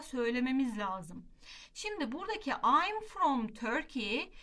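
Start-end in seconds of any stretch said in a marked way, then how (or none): 2.5-4.3 "I'm from Turkey" spoken slowly as the pattern to copy; teacher lays out the set phrase word by word; slow model answer. Shown as a demonstration. Teacher modelling the set answer for students, slow and clear. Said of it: "bizim için kalıp".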